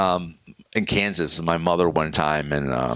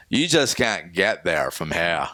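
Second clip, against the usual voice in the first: put-on Maine accent; slower than usual. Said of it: "And he goes".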